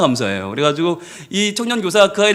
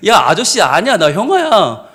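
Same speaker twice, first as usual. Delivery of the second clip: indignant protest; 5 dB louder than usual. Retold or imitated. Teacher protests to child.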